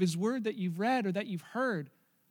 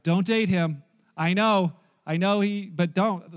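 emphatic warning; 7 dB louder, slower than usual. Retold or imitated. Voicing warning about a guy.

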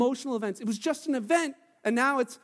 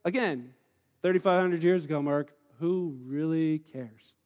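dismissive listener; 5 semitones lower than usual. Retold or imitated. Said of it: "you're like".

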